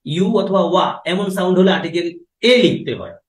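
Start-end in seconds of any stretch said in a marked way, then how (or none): 0.1-1.0 ইউ and ওয়া drawn out slowly, one by one; slow drilled sounds. Shown as a demonstration. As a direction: spell the sounds out slowly for the class. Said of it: "বললাম তো". (ইউ আর ওয়া ধীরে ধীরে টেনে বলা)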